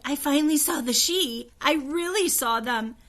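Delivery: amazed. A narrator's reading. Augusta after seeing the Sidhe, amazed and eager. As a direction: burst with wonder.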